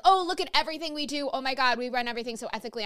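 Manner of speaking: lightly voiced boastful clinic, rushed; mock self-praise. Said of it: "that they say".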